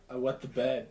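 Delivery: flat monotone confession. Retold or imitated. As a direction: say it like it's nothing. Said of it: "like, so monotone".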